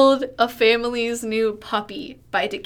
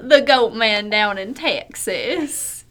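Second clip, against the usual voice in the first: Southern accent; 3 semitones higher, 5 dB louder than usual. Shown as a demonstration. Co-host showing off for a friend, hammed-up Southern accent. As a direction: spin a porch yarn in broad Southern. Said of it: "I have a much better southern accent".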